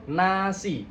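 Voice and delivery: NASI with the mouth opened after the N; clearly articulated N. Shown as a demonstration. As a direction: say NASI slowly with an open, clear "na". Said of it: "jadi mulutnya harus dibuka".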